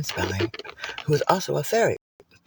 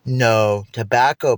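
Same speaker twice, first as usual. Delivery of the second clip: mock horror; 7 dB louder, slower than usual. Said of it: "everyone turned and goes".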